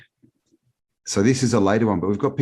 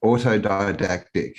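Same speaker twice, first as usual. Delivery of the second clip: Australian pronunciation of Autodidactic, the way an Aussie says it; Australian accent. Shown as a demonstration. Guest shows the host the Australian way to say it, Australian accent. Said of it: "That's how you say it with, you know, an Australian accent".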